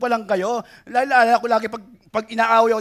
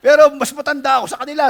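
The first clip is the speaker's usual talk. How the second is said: laughing; 3 semitones higher, 5 dB louder, much faster than usual. Real, not acted. Laughing at his own joke.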